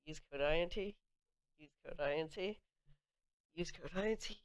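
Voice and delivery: breathless from endless repeating; winded, pushing the words out; out of breath. Real, not acted. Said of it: "I'm, like, out of breath right now".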